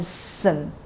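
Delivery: "sin" low and unaccented; unstressed syllable. Shown as a demonstration. Teacher showing learners an unstressed syllable, low "sin". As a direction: let "sin" sit low, without stress. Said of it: "is not stressed".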